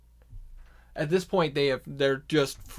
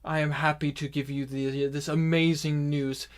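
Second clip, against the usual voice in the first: orc leader's speech; 6 dB louder than usual. Acted. Voodoo Rook addresses the orcs.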